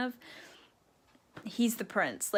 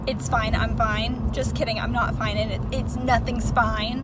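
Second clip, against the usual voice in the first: tag; 6 dB louder than usual. Real, not acted. Mock calm then breaking.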